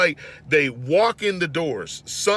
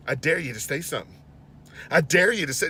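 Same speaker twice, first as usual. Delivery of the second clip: put-on gangster old woman; faster than usual. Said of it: "she gets all gangster on me".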